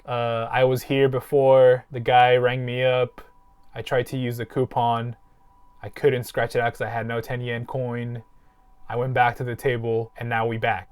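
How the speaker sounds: deliberately slow, simple sentences, low-key; slow and clear. Retold or imitated. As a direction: spell it out slowly to a foreigner. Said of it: "very clearly, like, in short sentences".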